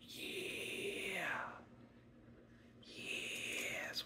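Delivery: very soft, drawn-out whisper to himself; hushed whisper. Real, not acted. Card opener reacting privately between packs, whispering. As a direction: whisper it under your breath.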